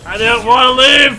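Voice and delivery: mock whine. Real, not acted. Mock whine after dying.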